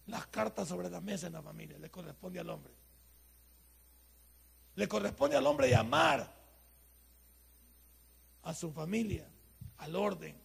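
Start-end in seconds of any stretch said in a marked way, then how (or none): 4.7-6.3 louder and slow; preacher pressing the men, loud and slow; emphatic preaching. Real, not acted. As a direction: lean on every word.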